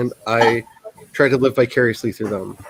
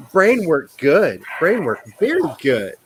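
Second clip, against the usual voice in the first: mock dim-witted; 3 semitones higher than usual. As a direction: play it dumb, word by word. Mocks own slip in broken speech.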